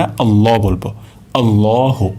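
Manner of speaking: আল্লাহ with a full, thick lam; heavy lam. Shown as a demonstration. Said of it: "উচ্চারণ করব আল্লাহু".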